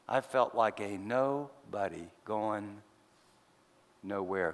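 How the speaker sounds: slow, low and weary, words sinking; quiet despair. Real, not acted. Pastor admits to the congregation he felt worthless. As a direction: let the words drag down into defeat.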